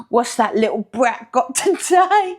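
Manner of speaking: annoyed teacher. Retold or imitated. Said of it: "imagine the teacher's face".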